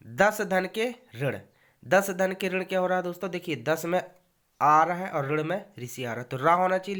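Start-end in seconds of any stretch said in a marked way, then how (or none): 0.1-1.4 slow down on दस धन के ऋण so students follow; दस धन के ऋण drawn out, each part clear; slow careful repeat. Shown as a demonstration. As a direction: say दस धन के ऋण slowly, word by word. Teacher repeats slowly.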